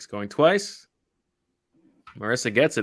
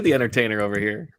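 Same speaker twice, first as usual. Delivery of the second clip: ordinary talk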